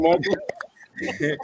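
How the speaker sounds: very high incredulous call; mock exclamation. Real, not acted. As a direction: call his name in disbelief. Calling out mockingly.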